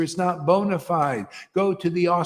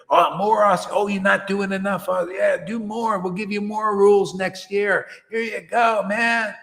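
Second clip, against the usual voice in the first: higher, nagging mock guru voice; 5 semitones higher than usual. Guru mocked for handing out more rules, high and nagging. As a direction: pile on the rules like a bossy guru.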